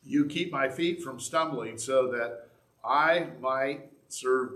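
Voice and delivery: measured, deliberate psalm reading; scripture reading. Acted. Preacher reading a psalm of trust to the congregation, measured scripture reading. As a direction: read the psalm with weighted pauses.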